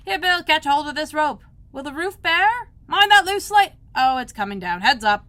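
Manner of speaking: loud calls across the roof; workmen shouting. A narrator's reading. Workmen shouting to each other on the roof. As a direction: shout orders up the ladders.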